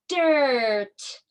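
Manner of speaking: "dirt" with a held er, falling; blending. Shown as a demonstration. Teacher blending sounds into a word, lengthened "dirt". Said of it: "let's put it all together".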